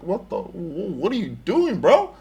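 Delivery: re-enacted incredulous reaction, pitch leaping up on "bro"; baffled disbelief. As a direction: stammer it softly, then rise sharply in disbelief. Acting out reaction to a robber.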